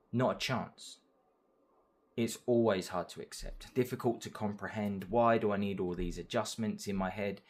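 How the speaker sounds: measured, rhythmic poem reading; spoken-word poem, pausing between lines; poem recital. Acted. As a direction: read your own verse with deliberate phrasing. Reads own poem aloud.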